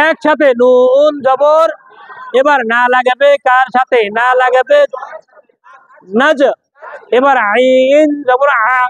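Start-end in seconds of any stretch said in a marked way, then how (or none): 0.1-1.7 slow drill. Shown as a demonstration. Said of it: "slow drilled spelling for students". 7.2-8.8 slow drill. Shown as a demonstration. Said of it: "slow drilled spelling for students".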